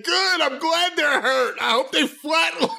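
high, drawn-out imitation of a screaming guy; mock scream. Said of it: "start screaming".

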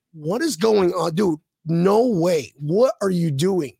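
mildly exasperated mock devil; furious devil. Devil in a joke confronting two guys, mildly furious. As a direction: retell it with a touch of outraged disbelief. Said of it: "He's furious now".

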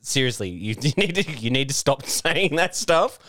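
retold, slowed-down exasperated protest; mock exasperated plea. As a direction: plead with a coworker to stop, half laughing. Retold plea to racist colleague.

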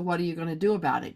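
fast defiant challenge; defiant kid. Retold or imitated. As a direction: toss it off as a cheeky dare. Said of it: "I've got the".

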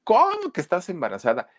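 acted shock, pitch leaping up; shocked disbelief. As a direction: blurt it as an aghast cousin. Cousin shocked at pregnancy claim.

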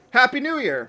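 excited. Real, not acted. Holiday greeting to listeners.

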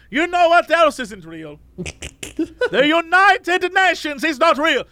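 ranting cab driver. Retold or imitated. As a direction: imitate the driver's conspiracy rant. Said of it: "he was just like".

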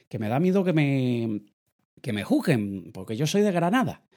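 put-on a light Granada accent, quoting a nervous client; Andalusian accent imitation. A client from Granada, unsure of her public speaking, in a light Andalusian accent. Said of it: "y me hablo un poco así".

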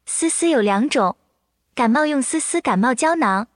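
AI voice. Acted. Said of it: "就请小小开始".

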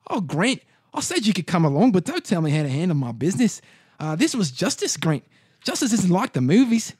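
condescending boss with a lilting, put-on accent; bald gang boss. Gang boss justifying a killing to Grant, condescending villain voice.

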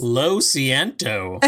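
slow Spanish apology. Real, not acted. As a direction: say it in Spanish, slowly. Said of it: "Nicely done. Spanish".

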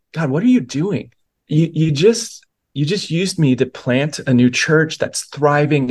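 pleading in real confusion, not blaming; confused, earnest plea. Shown as a demonstration. Pastor demos the right way to pray, confused and sincere. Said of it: "Not that, but more like".

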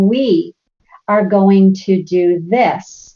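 slow, emphatic chore announcement; mom's eager voice. Retold or imitated. Mom announcing Saturday chores to teens, slow and emphatic. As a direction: spell out the plan slowly. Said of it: "the fact that I was saying".

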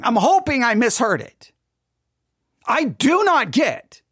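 high, loud exasperated ranting; pleading in angry confusion; angry disbelief. Real, not acted. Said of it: "my anger right now".

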